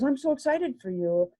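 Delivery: retold delight, pitched well up; excited high voice. Vicki congratulating her on the new job, thrilled. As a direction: gush with delight for a friend.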